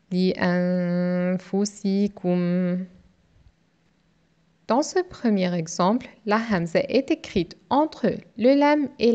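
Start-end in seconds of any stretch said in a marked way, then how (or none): 0.1-2.9 the same syllables run together smoothly and faster; syllables joined up. Shown as a demonstration. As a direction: blend the five syllables into one word. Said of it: "nous avons cinq syllabes". (syllabes enchaînées plus vite)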